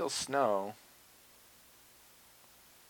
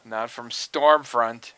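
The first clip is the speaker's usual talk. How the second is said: mocking, slow; 7 dB louder, much slower than usual. Real, not acted.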